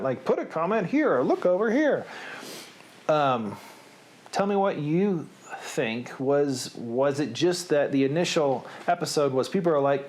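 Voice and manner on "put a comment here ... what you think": high, swooping imitation of online hosts; mock internet host. Imitating people on the internet asking for comments, high mock-host voice. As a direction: mimic people online plugging their comments, pitch swinging high. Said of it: "I see people doing this on the internet".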